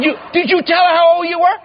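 high, rushed incredulous question; retold disbelief. Son grills Dad about what bride knows, acted disbelief. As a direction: grill Dad in comic alarm.

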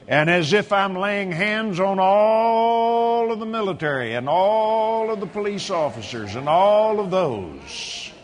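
measured laying-on-of-hands blessing; solemn prayer. Real, not acted. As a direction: pray over a soldier in deliberate, sustained phrases. Prays over soldier, laying on hands.

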